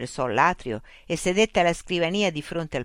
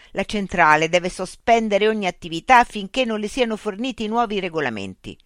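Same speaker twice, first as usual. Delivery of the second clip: angry demand; 5 semitones higher, 6 dB louder than usual. Acted. Mitch angrily demands.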